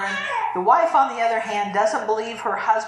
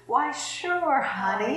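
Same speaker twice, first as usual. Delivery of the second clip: agreeable husband; 6 semitones higher, slower than usual. Retold or imitated. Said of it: "every husband says".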